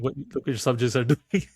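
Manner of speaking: amused, breaking into a laugh near the end; laughing as the storyteller voices it; laughing through the line. Acted. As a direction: let a laugh slip into the quote. Storyteller amused by acted message.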